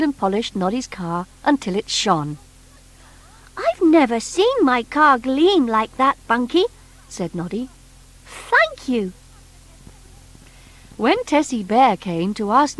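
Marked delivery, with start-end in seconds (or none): 3.6-6.7 put-on high, bright little toy boy; Noddy's voice. Noddy asking the strange creature, high boyish voice. 8.3-9.1 put-on high, bright little toy boy; Noddy's voice. Noddy asking the strange creature, high boyish voice.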